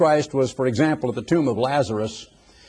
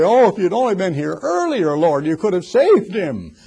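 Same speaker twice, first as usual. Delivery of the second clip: higher, far-from-usual voice, pleading in grief; acted heartbroken distraught; 5 semitones higher than usual. Two Marys come to Jesus grieving, acted distraught. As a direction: act out a distraught reproach, pitched up. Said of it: "so utterly heartbroken and distraught".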